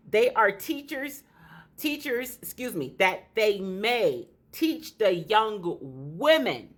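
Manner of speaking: braces catching the lip; words snag on braces; talking funny with braces. Real, not acted. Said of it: "I know I'm talking funny".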